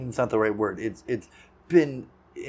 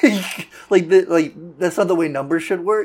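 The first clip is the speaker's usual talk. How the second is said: high, loud, laugh-filled words; cracking up at the absurdity; laughing while talking; 6 semitones higher, 8 dB louder than usual. Real, not acted. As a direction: apologize through real laughter. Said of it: "I'm sorry that I'm laughing".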